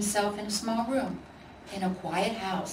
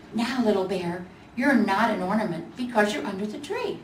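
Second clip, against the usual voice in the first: lively gingerbread voice; 3 semitones higher than usual. Acted. Gingerbread Boy talks.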